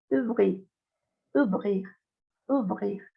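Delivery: "ouvrir" starting with one Spanish U sound, "oo"; "ouvrir" with O and U merged into oo; French OU as U. Shown as a demonstration. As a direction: say "ouvrir" as oo-vreer. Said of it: "se pronuncia como la U".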